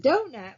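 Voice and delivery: "donut" with the first syllable stretched. Shown as a demonstration. Teacher showing a natural word, "donut" stretched up front. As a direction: stretch the start of "donut", let the end fall. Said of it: "we stretch and we pays attention".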